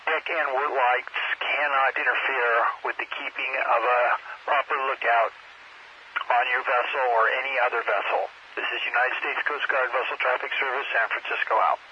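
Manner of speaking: marine radio. Real, not acted. Coast Guard broadcast on scanner.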